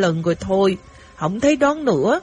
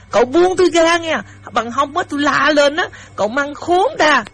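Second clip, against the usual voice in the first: high, raised-voice warning; 5 semitones higher than usual. Acted. Girl ordering the rich young man to let go, raised voice. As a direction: threaten to cry out, pitched up and firm. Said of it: "cho nên tôi nói lớn lên".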